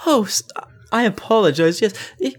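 high, tipsy party lady. Acted. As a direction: giggle and apologize lightly. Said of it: "she's like".

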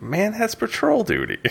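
slow, high mock Jaqen; drawn-out bored Jaqen; voicing Jaqen. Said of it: "he's like".

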